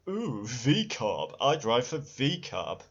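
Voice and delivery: slow, lightly put-on mocking voice; mock posh driver. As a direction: sneer at the name in a hint of a fancy voice. Mocking the team's new name.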